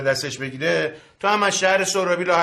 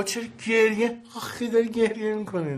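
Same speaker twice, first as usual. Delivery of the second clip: cooing sympathy; 7 semitones higher, 4 dB quieter than usual. Acted. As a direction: coo softly at a tearful mother. Soothing tearful mother on phone. (با دلسوزی و نازکشیدن)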